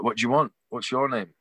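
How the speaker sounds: mock brusque challenge, only mildly forceful; retold aggression. A rock singer questions a nervous fan, mildly aggressive. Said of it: "he's very aggressive".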